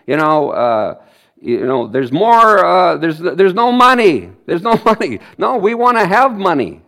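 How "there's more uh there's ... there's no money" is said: mock grumble. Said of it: "it could leak".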